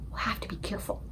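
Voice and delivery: soft unvoiced whisper. A narrator's reading. Sophie warning the giant about the watchman, whispered. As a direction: breathe a warning. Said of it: "Sophie whispered".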